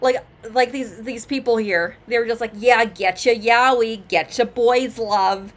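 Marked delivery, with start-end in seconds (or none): 2.6-5.4 slow, loud, sleazy New York drawl. Imitating the people at a favorite manga place, sleazy new york accent. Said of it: "talking like the sleaziest like New York type accents".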